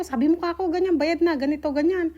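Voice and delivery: retelling a mild annoyed phone rant; annoyed retold scolding. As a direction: replay her exasperated complaint to Adil. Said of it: "inis na inis talaga ako".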